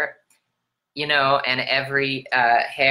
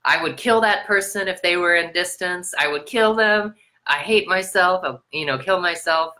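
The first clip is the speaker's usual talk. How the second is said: raised, heated mock rant; retold rage; 5 semitones higher than usual. Retelling past fits of anger to viewers, raised and heated. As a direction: replay the anger, pushed up but held back. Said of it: "and saying, like".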